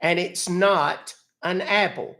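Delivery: put-on grumpy elderly Southern gentleman, exasperated; cranky old Southern man. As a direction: play a fed-up old country man. Old man persona scolding scammer.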